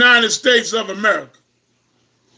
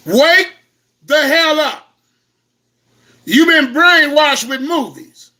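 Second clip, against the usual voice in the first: raised, preaching rebuke; fiery preaching. Real, not acted. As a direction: wake them up like a preacher. Preaching to the audience.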